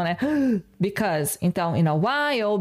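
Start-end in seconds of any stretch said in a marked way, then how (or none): 0.2-0.8 a quick sharp intake of breath; short audible gasp before speaking. Shown as a demonstration. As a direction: gasp in like catching your breath. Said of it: "essa respiração".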